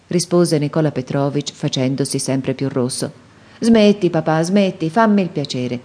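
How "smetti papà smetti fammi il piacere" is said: laughing off his father's apology; cheerful exclamation. Acted. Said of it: "esclamò Arcadio sorridendo allegramente". (esclamazione allegra e sorridente)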